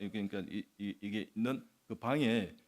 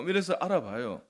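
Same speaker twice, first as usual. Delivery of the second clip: ordinary talk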